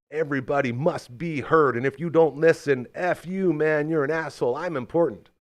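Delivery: loud, high, indignant outburst; mock entitled rant. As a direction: rant like a self-important jerk. Mocking entitled loud people.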